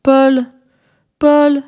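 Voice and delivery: humble calling of Paul's name. A narrator's reading. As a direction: call him gently through the door. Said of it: "d'une voix bien humble".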